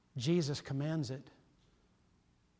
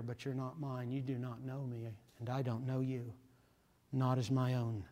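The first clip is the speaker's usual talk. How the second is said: softer, grave voice of God turning someone away; God speaking, hushed; 6 dB quieter than usual. Retold or imitated. Preacher voices God saying I don't know you, hushed. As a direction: let God quietly disown them. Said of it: "He'd say".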